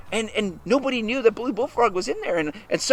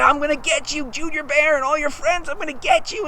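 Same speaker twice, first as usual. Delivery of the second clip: mildly angry, higher-pitched threat; 4 semitones higher than usual. Acted. Bully Bullfrog threatens Junior and friends, mildly angry. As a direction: threaten with a touch of anger. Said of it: "he was very angry".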